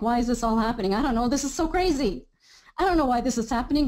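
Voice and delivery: half-hearted mock panic, asking why; bewildered worrying. Coach showing a client's confused inner voice, mildly fretful. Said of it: "just do that declaration thing that I did".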